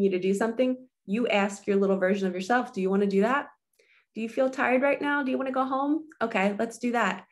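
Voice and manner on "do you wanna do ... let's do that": nurturing. Retold or imitated. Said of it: "talking to yourself in this way that it's so nurturing".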